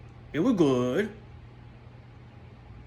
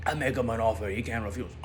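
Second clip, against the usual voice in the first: mock mobster; 3 semitones lower than usual. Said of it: "talking like this".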